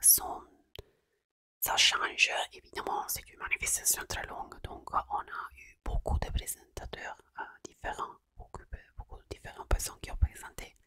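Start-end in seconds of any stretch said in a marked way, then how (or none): 5.1-10.8 Italian accent in French. Real, not acted. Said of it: "désolée, mon français".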